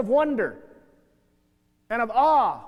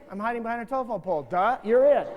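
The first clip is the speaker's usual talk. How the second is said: mocking dumb kid. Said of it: "You play hide and seek".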